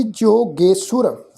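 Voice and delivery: ਜੋਗੇਸ਼ੁਰ as jo-ge-sur, syllables clear; pronunciation demo. Shown as a demonstration. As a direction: sound ਜੋਗੇਸ਼ੁਰ with a plain s and short u. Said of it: "ਤੋ ਪਾਠ ਉਚਾਰਨ ਕਰਾਂਗੇ ਜੀ". (ਜੋਗੇਸ਼ੁਰ ਦਾ ਸਾਫ਼ ਉਚਾਰਨ, ਜੋ-ਗੇ-ਸੁਰ)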